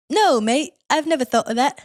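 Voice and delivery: put-on lightly accented slug character; slug Nigel. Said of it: "And he's like".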